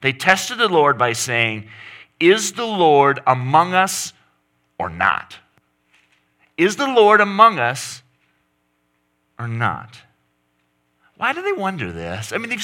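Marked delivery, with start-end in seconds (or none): 2.2-5.4 raised, slow challenge to God; voicing Israel calling out; mock demanding cry. Preacher voicing the grumbling Israelites, loud and slow. 6.6-10.0 high, loud accusing cry; louder, higher repeat. Acted. Preacher repeating Israel's cry, higher and louder.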